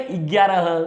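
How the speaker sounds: ग्यारह with a short extra vowel slipped in before the gy; slightly wrong pronunciation. Shown as a demonstration. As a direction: say ग्यारह a little corrupted, with a vowel in front. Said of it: "थोड़ा अशुद्ध बोले".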